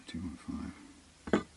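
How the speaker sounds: slow whisper under the breath; whispering the gauge reading while concentrating. Real, not acted. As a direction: breathe the number out to yourself very slowly. Repeating the reading under his breath.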